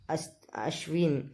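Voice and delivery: voiceless whisper, slow and faltering; whispered name. Retold or imitated. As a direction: breathe the name out, barely audible. Priya whispering Ashwin's name.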